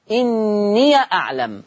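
slow chant of "إني أعلم" with an open "ya" after إني; Warsh recitation. Shown as a demonstration. Teacher chanting "إني أعلم" the Warsh way for the class. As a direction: recite "إني أعلم" slowly, "inniya", opening the ya. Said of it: "تقرأ".

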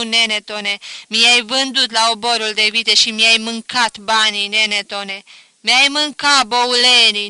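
loud wailing complaint to the dead; crying out. A narrator's reading. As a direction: lament loudly, half grief half grievance. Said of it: "strigă".

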